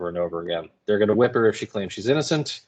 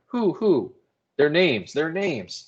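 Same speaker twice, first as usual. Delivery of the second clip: pressing demand; 7 semitones higher, slower than usual. A narrator's reading. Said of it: "Paris pressing in on her".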